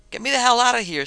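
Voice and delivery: loud, high cry for rescue; urgent calling out. A narrator's reading. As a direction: call out urgently from far away. Trapped Milton calls for rescue.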